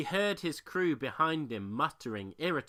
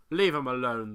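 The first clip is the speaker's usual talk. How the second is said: order; 8 dB louder than usual. A narrator's reading. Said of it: "the captain ordered".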